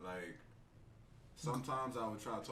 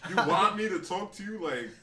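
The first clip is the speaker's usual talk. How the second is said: rough hood voice; 5 semitones higher, 12 dB louder than usual. Retold or imitated. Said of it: "I'm just like".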